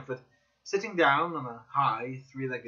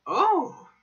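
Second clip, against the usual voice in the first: excited cry; 7 semitones higher, 5 dB louder than usual. A narrator's reading. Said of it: "I cried, rubbing my hands".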